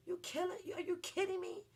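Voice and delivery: can't believe what she's reading; are you kidding me disbelief; incredulous. Real, not acted. Incredulous at the charge.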